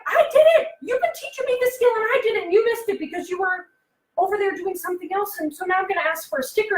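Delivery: put-on high, eager child voice that soon fades; a kid proudly pleading to be noticed; kid's voice. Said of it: "He's thinking, like".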